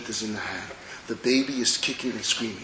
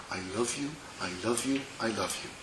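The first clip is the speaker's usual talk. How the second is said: soft imitation of mommy; 2 semitones lower, 11 dB quieter, faster than usual. Baby quotes mommy.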